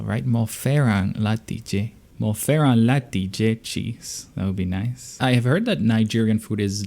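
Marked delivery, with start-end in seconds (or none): 0.3-4.3 slow "fẹ́ràn" with a nasal n; slow learner repeat. Shown as a demonstration. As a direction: repeat "Mo fẹ́ràn láti jẹ" slowly. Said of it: "That N is very nasal".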